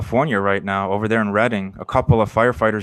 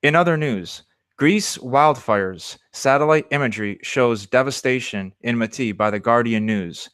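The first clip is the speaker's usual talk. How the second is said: reading out a news report in a measured, even voice. Acted. Host reading the Guardian story to the listeners, steady news-read voice. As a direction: read it like a newscaster.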